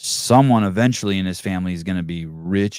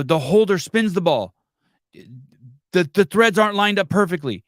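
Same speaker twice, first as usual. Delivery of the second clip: building commentator call, rising higher; mock play-by-play build-up; 4 semitones higher than usual. Shown as a demonstration. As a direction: call it step by step like a pro announcer. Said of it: "He didn't even say that they're lined up".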